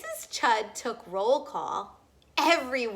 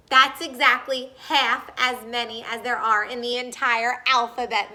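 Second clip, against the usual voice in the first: louder, smug recital; louder snooty know-it-all; 7 dB louder than usual. Acted. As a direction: show off to the teacher.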